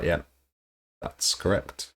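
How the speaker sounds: soft, breathy mock-modest whisper; quietly, smugly agree as if it's obvious; modest agreement. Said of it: "just kind of modestly, just nodding my head".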